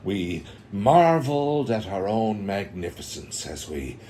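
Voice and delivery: a lightly voiced Morpheus, drawn out at the end; quoting Morpheus with a hint of gravity; Morpheus quote. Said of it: "Uh, Morpheus".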